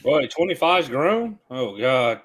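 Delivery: talking while chewing chicken; words round a mouthful of food; mouth full. Real, not acted. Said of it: "What are you eating".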